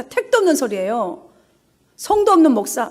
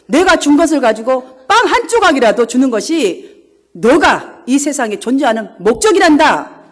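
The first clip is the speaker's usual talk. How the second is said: God's rebuke; 4 dB louder than usual. Retold or imitated. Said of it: "이렇게 말씀하더래요".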